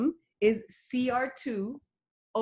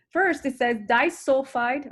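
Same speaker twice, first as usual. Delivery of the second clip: slow; 4 semitones higher, 4 dB louder than usual. Shown as a demonstration. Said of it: "let me say it slowly".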